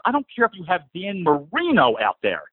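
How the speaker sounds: thick-tongued Jersey accent on a rant. Real, not acted. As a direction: let the Jersey accent slip out. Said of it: "My jersey's coming out".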